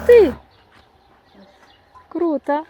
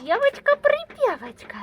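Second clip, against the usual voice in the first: cooing praise; 5 dB quieter than usual. Real, not acted. Praising the cat.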